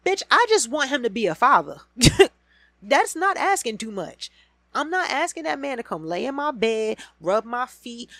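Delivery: loud, high, laughing rant; furious laughing rant at Rashida; exasperated outburst. Real, not acted. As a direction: blow up at the mother. Venting fury at Rashida.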